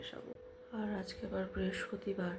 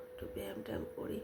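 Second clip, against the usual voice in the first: whispering; 12 semitones lower, 5 dB quieter, faster than usual. Real, not acted. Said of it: "খুব আস্তে আস্তে কথা বলছি".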